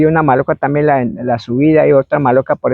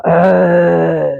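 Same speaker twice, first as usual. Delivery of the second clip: hoarse spirit cry; 3 semitones higher than usual. Retold or imitated. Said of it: "como voz ronca".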